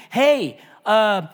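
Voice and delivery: high, loud, chatty caller; mock eager patient. Patient phoning the doctor while feeling fine, mock eager. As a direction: play a pointlessly cheerful patient booking a visit.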